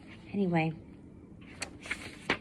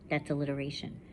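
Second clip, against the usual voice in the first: ordinary delivery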